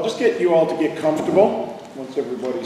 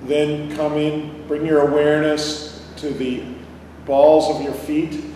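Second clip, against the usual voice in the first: calm, unhurried meditation guide; guided meditation; 4 dB quieter than usual. Real, not acted. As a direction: lead them inward with long pauses. Leads a body-scan meditation.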